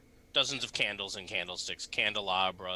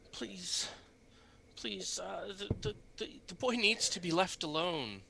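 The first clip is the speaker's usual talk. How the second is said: quiet pleading priest; 8 semitones higher, 4 dB quieter than usual. Acted. Priest voiced by DM, quiet plea.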